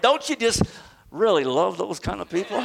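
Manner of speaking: mock-adoring, sarcastic question. Real, not acted. Preacher joking about always-upbeat people, sarcastic. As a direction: gush with tongue in cheek, then let a laugh out. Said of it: "I say that sarcastically".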